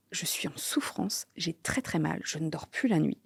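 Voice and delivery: plus bas, presque soufflé; douleur confiée. Retold or imitated. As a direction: confier sa souffrance à voix basse. Recounting months of severe pain. (souffrance dite tout bas)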